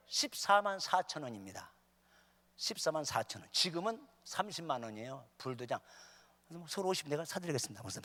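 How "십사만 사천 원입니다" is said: ordinary talk, nothing marked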